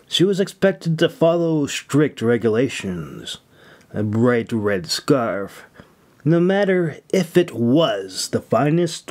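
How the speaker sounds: measured audiobook reading, lingering on descriptions; story narration. Acted. Author reading his fantasy chapter aloud to listeners, steady storytelling narration. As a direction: read it like an audiobook narrator setting the scene.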